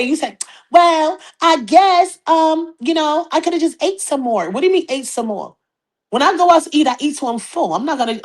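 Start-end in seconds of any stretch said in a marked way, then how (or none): 0.7-4.5 flustered. Retold or imitated. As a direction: imitate her fumbling for an answer. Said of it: "you didn't even know what to say".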